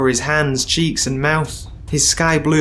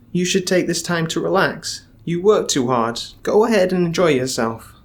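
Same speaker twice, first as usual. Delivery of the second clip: higher sweet-talking voice; Bum, coaxing; 3 semitones higher than usual. Acted. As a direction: coax him gently.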